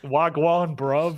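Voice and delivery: mock London roadman greeting; playful imitation of roadman slang; roadman accent. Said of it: "That's what Roadman accent is".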